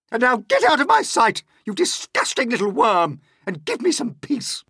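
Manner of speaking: high, loud scornful aunt; Aunt Spiker dismissing. Acted. Aunt Spiker ordering James out, high and loud. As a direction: send the boy away with contempt.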